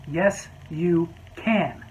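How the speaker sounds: very slow, stubborn "can"; drawn-out insistence. Retold or imitated. Customer insisting to the waiter, very slow and stubborn. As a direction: drag it out stubbornly.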